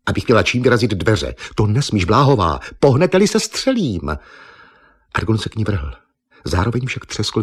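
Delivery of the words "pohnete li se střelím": much higher, louder repeated warning; shrill threat. Acted. Eva holding Argon at gunpoint, repeating her threat louder. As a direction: warn him sharply.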